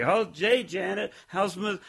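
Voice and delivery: "hey, Janet" pitched high all through; going up at the end. Retold or imitated. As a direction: lift "Janet" and "How's Mis-" up high, imitating. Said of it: "You kinda go up on the end".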